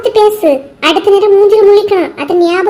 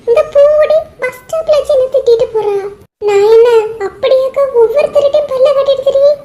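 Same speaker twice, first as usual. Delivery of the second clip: tearful complaint, voice pitched up; crying; 3 semitones higher than usual. Acted. Geetha tearfully complains to the older woman about the insult. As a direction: sob out the hurt to the older woman. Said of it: "நீ ஏன் அழுதுகிட்டு இருக்க".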